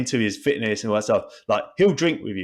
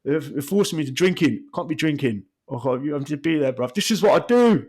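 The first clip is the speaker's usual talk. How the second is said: pundit voiced; 5 semitones higher than usual. Voicing the pundit after drinks.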